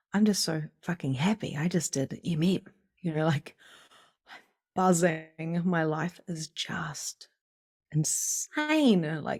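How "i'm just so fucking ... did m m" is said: usual speaking voice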